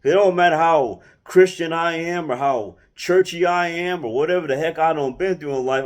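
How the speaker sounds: ordinary talk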